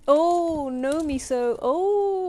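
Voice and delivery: sudden high, loud alarm; startled cry to cat. Real, not acted. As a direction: yelp as the cat leaps up. Cat jumps on the door.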